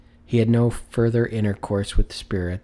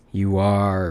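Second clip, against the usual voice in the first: mock stern; 4 dB louder than usual. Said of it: "repeated Scrooge".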